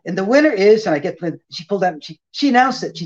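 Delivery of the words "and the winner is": rising, suspenseful winner reveal; award announcer tease. Retold or imitated. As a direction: build suspense before the name. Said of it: "she said".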